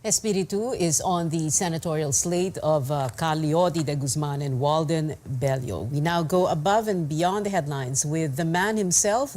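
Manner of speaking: TV anchor introducing a segment; news read. Acted. Anchor introduces senatorial candidate to viewers, news read. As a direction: present it like a news programme host.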